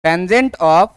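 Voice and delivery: one or two words at a time, long gaps; slow dictation. Shown as a demonstration. Teacher telling students what slope is, slow dictation. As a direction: dictate piece by piece, leaving time to write.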